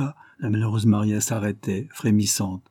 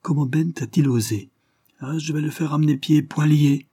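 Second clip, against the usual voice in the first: higher-pitched, indignant ranting; a touch of fury, pitched up; angry outburst; 5 semitones higher than usual. Acted. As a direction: rant in mounting outrage. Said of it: "dans une telle colère".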